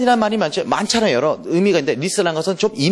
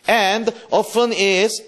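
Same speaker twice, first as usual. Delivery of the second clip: slow poem recital; 2 semitones higher, much slower than usual. Shown as a demonstration. Teacher reading sonnet aloud to class, slow recital. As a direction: stretch every word of the verse.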